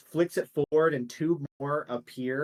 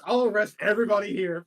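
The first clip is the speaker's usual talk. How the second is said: angry threat; 6 semitones higher, 6 dB louder, faster than usual. Acted. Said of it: "And he goes".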